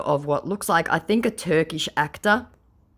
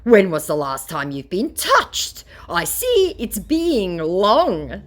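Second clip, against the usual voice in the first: mock scammer; 6 semitones higher, 4 dB louder, slower than usual. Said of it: "said my scammer".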